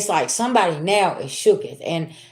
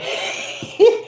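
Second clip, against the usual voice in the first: a sudden breathy high giggle; real high-pitched giggle; 14 semitones higher than usual. Real, not acted. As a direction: laugh at yourself in disbelief. Laughs at own realization.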